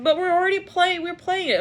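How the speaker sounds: mock protest. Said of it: "I'm hearing, like".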